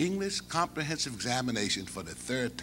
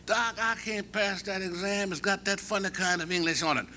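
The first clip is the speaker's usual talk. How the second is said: a hint of a worried player pleading; student's voice; 8 semitones higher than usual. Mouse pleading with Doc about the exam, lightly voiced. Mouse answering the college president.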